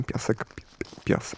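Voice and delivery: piasek whispered softly, hissing the s like sand pouring; whispered sand word. Shown as a demonstration. Radio host whispering piasek so it sounds like sliding sand. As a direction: breathe piasek out like trickling sand. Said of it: "jakby właśnie coś się przesypywało".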